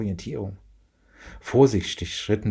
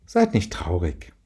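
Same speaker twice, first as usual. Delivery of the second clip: slow, gentle comfort; mother consoling her sad kids, gently; 2 semitones lower, slower than usual. Acted. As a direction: soothe the disappointed children. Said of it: "Marie versuchte zu trösten".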